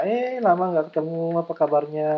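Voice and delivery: excited hello at a family gathering; mock joyful reunion. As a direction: act delighted to see someone after years. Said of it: "Kalau halal bihalal mungkin bisa lama".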